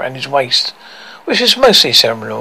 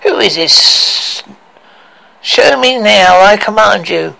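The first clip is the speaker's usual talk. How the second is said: commanding queen; 6 semitones higher, 5 dB louder, slower than usual. Acted. Evil queen demanding the mirror.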